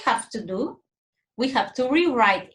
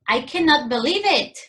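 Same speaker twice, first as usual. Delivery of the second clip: higher, amazed disbelief; 5 semitones higher, 3 dB louder than usual. Shown as a demonstration. Teacher modelling an exclamation for the class, amazed disbelief. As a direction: say it as if stunned by news.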